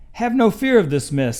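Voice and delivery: high, loud and bouncy reassurance; cheerful cat. A narrator's reading. Cat to the children about the mess, high and loud. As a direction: sing it out bright and confident. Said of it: "said the cat in the hat".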